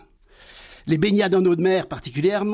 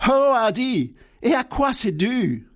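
higher, naive sidekick voice; Laurel's voice; 6 semitones higher than usual. Acted. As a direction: play the simple-minded friend, high and eager. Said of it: "Dialogue imaginaire entre Laurel et Hardy". (voix aiguë et naïve de Laurel)

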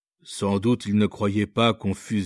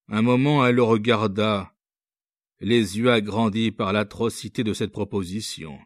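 ordinary delivery

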